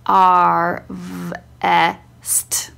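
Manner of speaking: sounding out R, V, E, then ST blended as one; S T run together. Retold or imitated. Imitating her child miscounting sounds, S and T merged. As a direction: separate sounds, but S and T joined as "st". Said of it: "like it's one sound".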